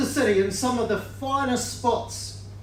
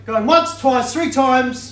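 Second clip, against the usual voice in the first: louder, slowing auction countdown; auctioneer call; 4 dB louder, slower than usual. Real, not acted. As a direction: stretch the last call out. Auctioneer closing the bidding.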